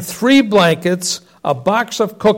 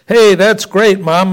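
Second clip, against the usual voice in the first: shouted; 2 semitones higher, 4 dB louder than usual. Acted. Kids shouting joyfully to their mother about twins. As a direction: call it out to Mom in delight. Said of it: "my brother and I shouted".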